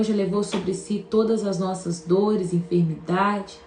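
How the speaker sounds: earnest, steady prayer voice. Real, not acted. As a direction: pray it out sincerely. Leads a prayer for healing.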